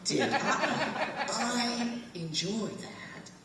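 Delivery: imitating two old British men, polite British accent, laughter breaking through; a fond send-up of two old British tourists, cracking up; posh British accent. Quoting the British men at the back of the tour train, British accent with stifled laughter. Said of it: "They talk just like that".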